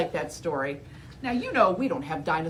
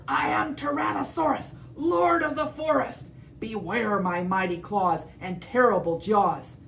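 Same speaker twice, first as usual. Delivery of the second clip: roaring T. rex. Acted. T. rex boasting to Edna, hammed-up roar. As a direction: boast like a mighty lord. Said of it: "he roared".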